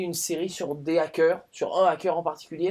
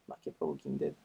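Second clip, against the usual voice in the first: much lower, quieter, menacing repeat of "Marquez pas Walking Dead"; ominous deep voice; 9 dB quieter than usual. Pretend. Vlogger warning viewers off Walking Dead, in a deep ominous voice. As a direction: drop into a deep, dark warning voice.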